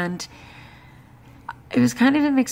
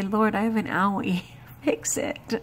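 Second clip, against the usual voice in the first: mock childlike whine. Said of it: "I'm gonna cry to my father".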